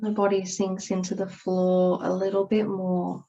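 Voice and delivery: calm, unhurried yoga nidra guidance with long pauses; guided meditation. Acted. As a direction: ease them gently into rest and stillness. Leads a guided relaxation.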